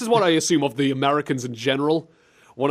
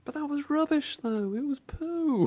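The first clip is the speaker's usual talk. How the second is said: high, soft whiny protest; small pitched-up voice, playfully sulky; mock complaint; 12 semitones higher, 7 dB quieter than usual. Host grumbling at co-host's accent, high soft mock complaint.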